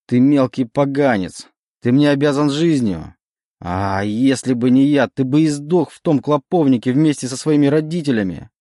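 shouting. Acted. Legion shouts at Oleg that he owes him his life. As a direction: scream the reproach at him. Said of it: "Легион перешёл на крик".

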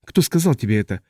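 usual speaking voice

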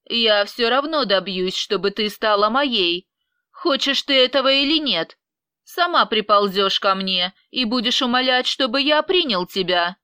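bursting out in anger; flaring up. Acted. Vyacheslav flaring up at Angelina, angry threat. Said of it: "вспылил Вячеслав".

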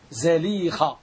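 زليخة said carefully as "Za-LEE-kha"; زليخة opening on "za"; fatha on zāy. Shown as a demonstration. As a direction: model زليخة with a short a after the z. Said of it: "بفتح الزاي".

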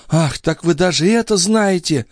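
put-on high girlish voice, drawing out the words; drawn-out exclamation. Maid caught out by the duke, high drawn-out voice. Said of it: "протянула Николь".

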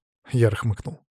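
plain reading voice

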